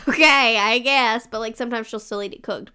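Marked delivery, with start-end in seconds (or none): 0.1-1.3 resigned okay. Retold or imitated. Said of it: "And I'm like".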